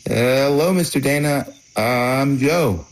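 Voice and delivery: high, bright polite hello; polite greeting. Retold or imitated. Greeting sleeping man.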